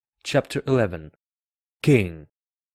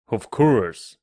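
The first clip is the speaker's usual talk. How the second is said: lightly voiced king, louder; self-assured king; 6 dB louder than usual. A narrator's reading. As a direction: confirm it with royal certainty.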